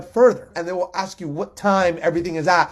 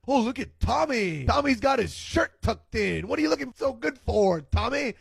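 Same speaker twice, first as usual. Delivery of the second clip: sarcastic tone; 3 semitones higher than usual. Retold or imitated. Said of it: "compliments in a sarcastic tone".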